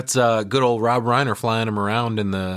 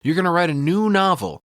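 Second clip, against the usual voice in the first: mock gushing Annie; 3 semitones higher than usual. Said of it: "She's like".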